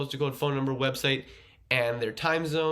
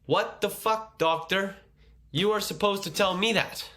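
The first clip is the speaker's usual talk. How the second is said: higher-pitched, acted indignation at normal volume; mock freak-out; 5 semitones higher than usual. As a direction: play a patient mildly freaking out at the doctor. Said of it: "You'd probably freak out and say".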